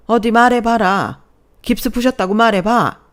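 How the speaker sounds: mother-in-law catching her daughter-in-law lying, furious; enraged mother-in-law. A narrator's reading. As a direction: bear down on her word by word. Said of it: "대노한 시어머니 목소리가 들렸어요".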